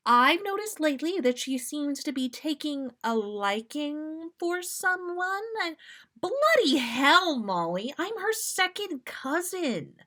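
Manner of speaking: high, loud bloody hell; shocked outburst. Acted. Sirius appalled to Molly about his cousin, shocked. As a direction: blurt it out appalled.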